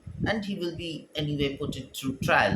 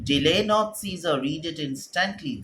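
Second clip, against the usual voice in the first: raised, pressing call to read it now; loud insistent warning; urgent plea; 3 dB louder than usual. Acted. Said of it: "There's the sense of urgency in Artemidorus' voice".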